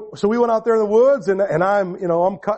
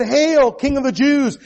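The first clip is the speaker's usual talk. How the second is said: mocking hail; 5 semitones higher, slower than usual. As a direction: sneer out a fake royal greeting. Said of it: "it said".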